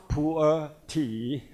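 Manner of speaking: "pu'er" as poo-er, without a y-glide; Chinese pronunciation. Shown as a demonstration. Presenter citing the name used in China, "pu'er" said as poo-er. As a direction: say "pu'er" in two syllables, poo-er. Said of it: "in China, pronounced as poor".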